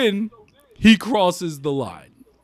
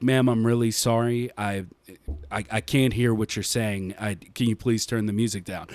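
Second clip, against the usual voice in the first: polite plea; 9 semitones lower, 6 dB quieter than usual. Retold or imitated.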